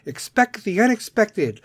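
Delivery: mock panicky society. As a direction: ham up the scared masses. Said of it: "society is sitting there like".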